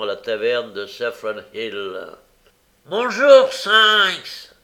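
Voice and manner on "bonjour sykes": high, loud, delighted greeting; joyful cry. A narrator's reading. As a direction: cry out a welcome with put-on joy. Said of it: "s'écria Barney avec une joie".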